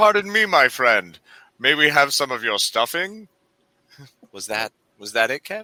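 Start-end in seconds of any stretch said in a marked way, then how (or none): 0.0-3.3 put-on weak British accent, raised and high in pitch. Picturing a movie recast, speaker performs Costner's Robin Hood voice. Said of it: "a very weak occasional British accent".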